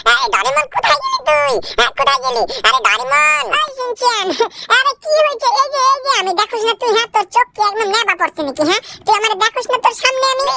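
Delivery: put-on very high, bratty child voice calling out; squeaky little brat yelling for his friend; cheeky cartoon kid. Kid calling for Doraemon, high squeaky voice.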